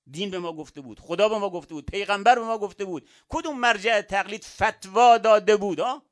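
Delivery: climbing steadily to a loud, high demand; building rhetorical challenge. Real, not acted. Preacher challenging listeners about who ordered masks, building rhetorical challenge.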